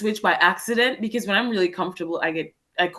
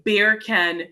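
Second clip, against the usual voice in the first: English accent. Shown as a demonstration. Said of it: "in an English accent".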